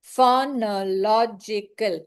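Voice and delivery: slow, syllables marked; syllable demo. Shown as a demonstration. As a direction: repeat phonological beat by beat. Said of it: "said five is absolutely right".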